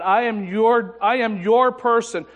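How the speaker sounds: loud, high, impassioned prayer of surrender; fervent vow. Retold or imitated. Preacher reliving his vow to God, loud and fervent. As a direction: pour it out like an earnest altar call.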